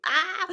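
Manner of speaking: high "ah" at a near miss; pained "ah". Real, not acted. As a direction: let out a high cry of near-miss frustration. Mock dismay at a near miss.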